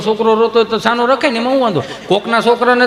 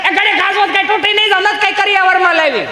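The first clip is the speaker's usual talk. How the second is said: very high, squealing retort; hammed-up wife's comeback; quarrelling wife; 12 semitones higher than usual. Wife answering husband in a domestic quarrel, indignant.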